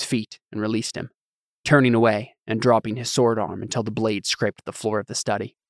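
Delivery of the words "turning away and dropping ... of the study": plain reading voice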